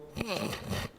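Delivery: soft suppressed snicker; quiet, mock muffled laugh; stifled giggle. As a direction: try to hold in a giggle. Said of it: "trying not to giggle".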